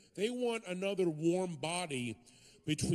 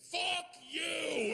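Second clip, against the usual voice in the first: yelled curse; 10 semitones higher than usual. Retold or imitated. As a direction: blurt it out at the top of your lungs. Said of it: "my brother went".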